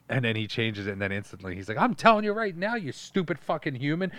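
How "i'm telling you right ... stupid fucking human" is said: much higher mock cartoon rant. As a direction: sneer it like an angry toon. Cartoon insulting humans.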